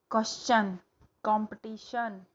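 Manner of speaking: क्वेश्चन said with "chan", कॉम्पिटिशन with "shan"; contrasting endings. Shown as a demonstration. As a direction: set the "चन" ending against the "शन" ending. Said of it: "ये शन में जा रहा है". ("चन" और "शन" का अंतर दिखाते हुए)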